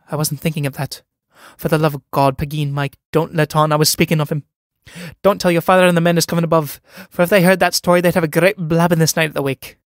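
thunderstruck. Acted. Sean begs Pegeen not to tell, alarmed and pleading. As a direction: panic building into a fast pleading rush. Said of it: "Sean, thunderstruck".

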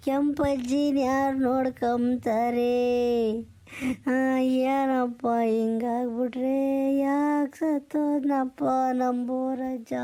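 slow, drawn-out mock weeping lament; drunken lament. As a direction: wail over the dead friend, slowly. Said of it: "ಈ ಥರ ಅಳ್ತಾ ಕೂತ್ಕೊಂಡ್ರೆ". (ನಿಧಾನವಾದ ಕುಡುಕ ಗೋಳಾಟ)

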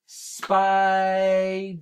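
spider split into two slow beats, spi-der; chunked into syllables. Shown as a demonstration. Teacher chunking a word for her young learners, slow beats. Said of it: "Ready? Here we go".

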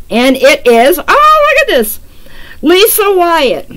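loud, high burst of delighted surprise; excited reveal. Real, not acted. Host drawing the last winner, excited surprise.

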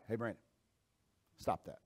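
very soft, low, hushed correction; gentle whispered warning. Acted. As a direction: lean in quietly, barely voiced. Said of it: "God a lot of times whispers to us".

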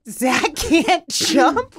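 imitating a child's worried disbelief; high, loud, very slow incredulous question; concerned. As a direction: draw it out like a baffled kid. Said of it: "Like, he was concerned".

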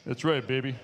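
cocky swagger. Retold or imitated. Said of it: "I got the swagger".

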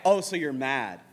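low-pitched needling of a sibling; restrained mock goading; sister's taunt. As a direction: imitate a sister needling, before she gets loud. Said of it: "No, she gets louder".

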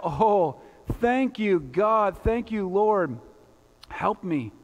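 mildly acted amazement, crying out thanks; a touch of awed relief, lifted at first; amazed cry. Amazed man on the cliff thanks God, crying out. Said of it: "the amazed man cried out".

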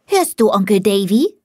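put-on a small boy calling his uncle; little boy. A narrator's reading. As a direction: nephew calling uncle Davy in a child's voice. Small nephew calls his uncle.

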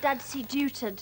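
"Dadsy Dewton" with every N blocked to a D; name with a cold. Acted. Traveller with a cold tells the stationmaster his name as "Dadsy Dewton". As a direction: say "Dadsy Dewton" through a fully stuffed nose. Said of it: "I can't say my N's properly".

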